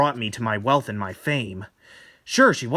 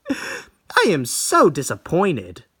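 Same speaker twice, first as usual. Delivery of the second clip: scornful; 3 dB louder, much slower than usual. Acted. Tomie scorns the portrait.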